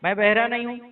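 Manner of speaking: angry scolding. Real, not acted. Pastor scolding caller's loud voice.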